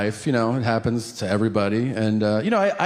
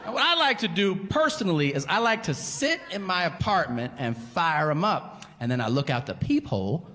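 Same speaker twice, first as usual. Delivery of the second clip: stoner guy; 4 semitones higher, 4 dB quieter than usual. Retold or imitated. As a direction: float it out like a blissed-out burnout. Stoner guy describing crack high.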